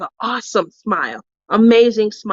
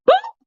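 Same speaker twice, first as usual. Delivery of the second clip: imitated thud. Imitates the sound of the fall.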